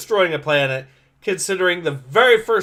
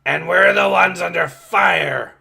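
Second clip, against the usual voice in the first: shout; 6 dB louder than usual. Acted. Character shouting in combat.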